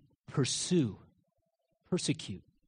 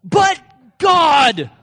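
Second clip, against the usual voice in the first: high, very loud shout; emphatic declaration; 11 semitones higher, 14 dB louder than usual. Acted. David answering doubts about how it will work, shouted declaration. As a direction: bellow both words, unshakeable. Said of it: "this is how he talked".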